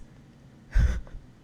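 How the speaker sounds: short breathy laugh of embarrassment; embarrassed laugh. Real, not acted. Vlogger owning up to ten dollars, embarrassed laugh. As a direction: laugh briefly at your own embarrassment.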